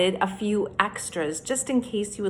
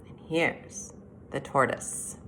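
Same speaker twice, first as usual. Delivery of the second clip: whisper; 6 semitones lower, 8 dB quieter than usual. Real, not acted. Showing the tortoise picture, hushed.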